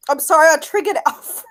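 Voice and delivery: apologising through high-pitched giggles; nervous laughter. Real, not acted. Debater apologising for upsetting Alfred, nervous laughter. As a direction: try to say sorry while cracking up. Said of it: "nervous laughter".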